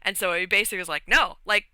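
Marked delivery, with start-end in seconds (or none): 1.1-1.7 mildly manic denial; lightly acted manic reassurance; manic insistence. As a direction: insist a little too hard that all is fine. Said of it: "like, manic, kind of".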